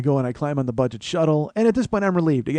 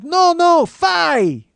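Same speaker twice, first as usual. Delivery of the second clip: loud, high-pitched mock Asian-accented shout; Asian man shouting; 13 semitones higher, 8 dB louder, much slower than usual. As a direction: yell it in a mock Asian accent, stretching the last word. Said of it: "an Asian guy comes running out".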